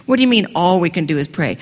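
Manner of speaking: fast, challenging question with "all" pushed hard; brisk, incredulous pushback; indignant retort. Acted. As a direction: throw the phrase back in disbelief. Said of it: "Wait a minute".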